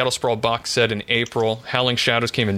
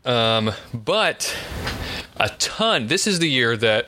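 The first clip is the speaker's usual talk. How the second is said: out of breath; slower than usual. Real, not acted. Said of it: "I'm out of breath running to let the dog back in".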